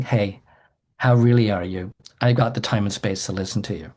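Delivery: softly sincere, ready to listen; sincere lean-in. Shown as a demonstration. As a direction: ask it like you truly want the answer. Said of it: "someone leaning and saying".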